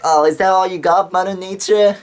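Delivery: a high, loud taunting yell at the sky; mock shout. Class clown taunting Mother Nature after the quake, loud mock shout. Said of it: "screamed out loud".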